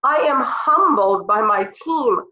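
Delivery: choked up with real emotion about her team; emotional. Real, not acted. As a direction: speak through being moved, holding it together. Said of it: "that makes me really emotional".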